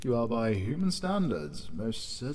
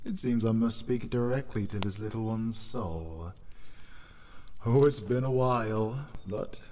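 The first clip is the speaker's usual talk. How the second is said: rising excitement; 4 semitones higher, 4 dB louder than usual. Acted. Spirit rouses itself to enter.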